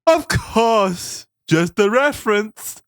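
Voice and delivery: high, slow, dopey nerd voice; a goofy high nerd reading creepy lines; fat nerd voice. Acted. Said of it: "your fat nerd voice with the lazy eye".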